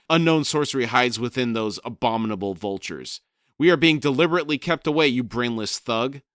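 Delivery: loud, high rushed exclamation; exclaiming raven. Acted. Crone berating Brood about the vultures, loud and high. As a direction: blurt it out fast and loud, then spit the insult. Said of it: "Crone exclaimed".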